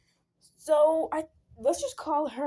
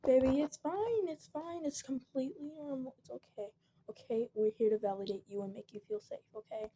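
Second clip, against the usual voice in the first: gentle reassurance; 3 semitones higher, 4 dB quieter than usual. Retold or imitated. Soothing scared child.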